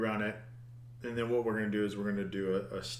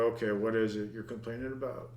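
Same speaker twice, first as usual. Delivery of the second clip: softer, quick, exasperated aside to the computer; testy with Java; 4 dB quieter, faster than usual. Real, not acted. Programmer talking back to Java, lightly testy. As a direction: grumble at the program like it's a person. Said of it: "getting a little temperamental there".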